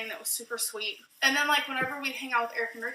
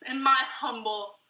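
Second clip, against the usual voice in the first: whisper. Real, not acted. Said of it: "joking aside".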